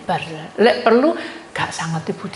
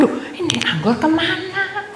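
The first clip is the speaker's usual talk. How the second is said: high, puzzled retold question, drawn out; bewildered; 8 semitones higher, slower than usual. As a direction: act out baffled searching, stretching the last word. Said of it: "Terus saya bingung". (bingung mencari, nada tinggi dipanjangkan)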